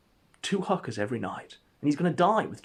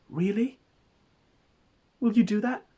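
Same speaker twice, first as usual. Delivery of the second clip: eager hope; 11 semitones higher, 4 dB louder than usual. Acted. Gator hopes to be adopted.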